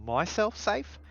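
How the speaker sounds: slow, loud, high insistence; emphatic insistence. Acted. Character arguing to keep himself safe, emphatic.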